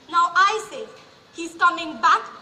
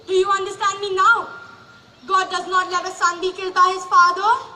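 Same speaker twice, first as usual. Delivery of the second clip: intense; 5 dB louder than usual. Acted. Mother insists son is alive.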